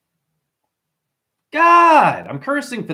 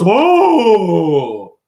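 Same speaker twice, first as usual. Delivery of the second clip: nervous whoa; 7 dB louder than usual. Retold or imitated. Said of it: "She got all, like, nervous".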